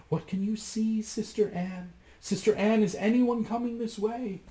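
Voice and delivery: calling up. A narrator's reading. Wife calling up to Sister Anne, anxious. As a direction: call up the tower, worried. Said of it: "she would call".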